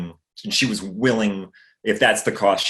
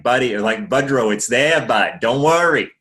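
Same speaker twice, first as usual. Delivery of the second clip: louder, hammed-up Maine accent on buddy and bud; 3 semitones higher, 6 dB louder than usual. Shown as a demonstration. Showing his Maine accent still slips out, hammed-up Maine accent. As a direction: lay the Maine accent on thick, calling him bud. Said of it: "It's not that it's not there".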